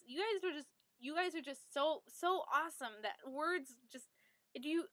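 real stammering, restarting phrases as words fail; flustered stumbling. Real, not acted. Gushing to theater friends about how awesome they are, flustered stumbling. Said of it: "I'm stuttering right now".

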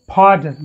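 "pardon" with a popped, breath-released P; aspirated P. Shown as a demonstration. Teacher shows Western pronunciation, aspirated P in "pardon". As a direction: pop the P at the start of "pardon". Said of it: "Western people pronounce it as".

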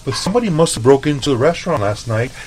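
high put-on voice, cracking into laughter; imitating Lucy's innocent concern with laughter; mock innocent coworker. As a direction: play dumb and sweet as Lucy, laughing through it. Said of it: "and she's like".

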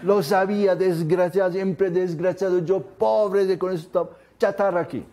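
a hammed-up rant at the stalled car; mock angry outburst. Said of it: "¿Qué hace el negro?". (conductor que maldice el carro varado, enojo exagerado)

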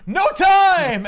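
high, loud urgent bark; Lizard's frantic shout. Retold or imitated. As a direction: cut him off with a panicked yell. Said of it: "Lizard's like".

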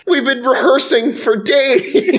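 weary kobold. Acted. Weary kobold performer complains.

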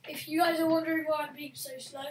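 talking while spinning round in a chair; spinning office chair. Real, not acted. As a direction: speak while whirling on a chair. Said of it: "I'm spinning on my chair doing three sixties".

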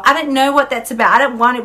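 put-on high, whining, childish complaints; whiny voice. Her inner child refusing food choices, whiny and high. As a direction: whine like a sulky kid. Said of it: "hear my whiny voice".

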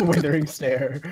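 slow, laughing villain announcement; drawn-out evil proclamation. Acted. Villain GM announcing his attack.

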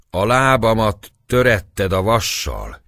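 angry shout. A narrator's reading. Gáspár accusing the Turk, angry shout. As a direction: hurl the accusation. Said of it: "kiáltotta Gáspár".

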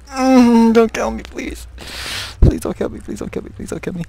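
hushed, anxious begging; nervous pleading. Real, not acted. Frightened player begging the game, hushed nervous plea. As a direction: repeat the plea under your breath, nervously.

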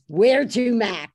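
loud, lightly voiced cabbie call; brusque cabbie greeting, lightly imitated; cab driver. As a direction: call it out like a cigar-chewing cabbie. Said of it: "And the cab driver says".

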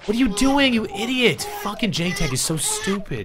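high, furious shout at a teammate; angry yell. Real, not acted. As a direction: scream at the dumb teammate. Yelling at teammate J-Tag.

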